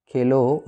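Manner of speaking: खेलो set apart as its own phrase; pause after खेलो. Shown as a demonstration. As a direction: hold off after खेलो, as at a comma. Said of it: "उसके बाद अल्प विराम दिया".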